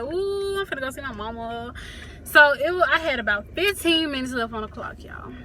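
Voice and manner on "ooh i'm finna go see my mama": retold excitement. Daughter about to see her mama, lightly acted excitement. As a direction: act out a little burst of anticipation. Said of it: "I'm excited and stuff".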